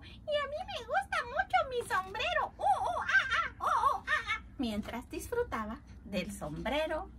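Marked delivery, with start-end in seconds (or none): 0.0-4.4 muy agudo, con chillidos de mono; voz de mono. Acted. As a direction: chilla como un mono contento. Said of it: "Y el mono que estaba en la puerta dijo". (el mono presume el sombrero, con chillidos)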